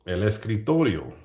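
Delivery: "el escritorio" said as Spanish; Spanish pronunciation. Shown as a demonstration. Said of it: "So in Spanish".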